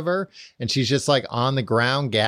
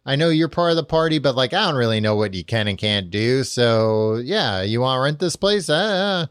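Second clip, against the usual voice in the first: lightly acted easygoing landlord, pitched up; nonchalant landlord; 4 semitones higher than usual. Charrington lulling Winston into false security, casually nonchalant. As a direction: imitate someone playing dumb and harmless. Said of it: "this guy's just like".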